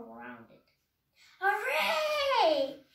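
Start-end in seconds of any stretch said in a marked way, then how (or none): 1.4-2.8 high, loud laughing cheer; joyful shout. A narrator's reading. Minnie cheering with a laugh at her dinner. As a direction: whoop it out, laughing. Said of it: "she shouted".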